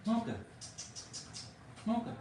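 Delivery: high call of a name. Real, not acted. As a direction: call the dog across the room. Calling the dog.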